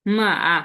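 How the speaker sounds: মা, আ drawn out on a tone; tone demo. Shown as a demonstration. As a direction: model the Chinese tone on মা. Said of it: "এ মে দিয়ে একটা tone বলতেছে".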